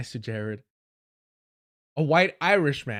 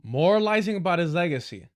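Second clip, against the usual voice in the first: louder sarcastic repeat of the quote; sarcastic mock echo; 3 semitones higher, 4 dB louder than usual. Shown as a demonstration. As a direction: echo the phrase back with scorn. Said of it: "all the retrograde things he said".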